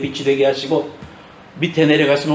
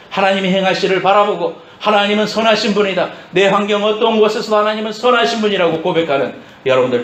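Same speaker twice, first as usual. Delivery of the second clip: raised, driving sermon cadence; impassioned preaching; 6 semitones higher, 4 dB louder than usual. Real, not acted. Preacher blessing those who confess God is good, impassioned preaching. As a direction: build toward a blessing with conviction.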